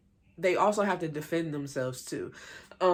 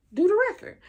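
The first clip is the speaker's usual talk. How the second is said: high, loud mock shout of the last words; mock yell; 8 dB louder, faster than usual. Keely telling the group to do the record, mock shout. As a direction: fling the final order at them, hammed up. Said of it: "She was like".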